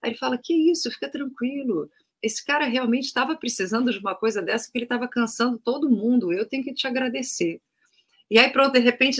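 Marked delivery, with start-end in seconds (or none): 0.4-7.6 calm reassurance. Retold or imitated. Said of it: "daquele mesmo tom de voz".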